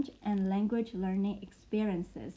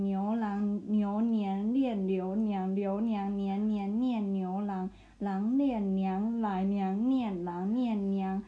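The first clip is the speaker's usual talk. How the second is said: slow careful tongue twister; slower than usual. Shown as a demonstration. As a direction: enunciate each syllable slowly. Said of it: "it's even hard for me".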